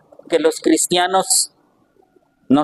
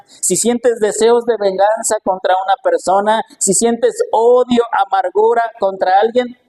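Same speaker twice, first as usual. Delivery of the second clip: higher, fervent preaching of the Lord's words; voicing the Lord; 5 semitones higher than usual. Preacher voicing the Lord to the congregation, fervent and higher. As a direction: proclaim it as the Lord speaking. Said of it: "El Señor dice".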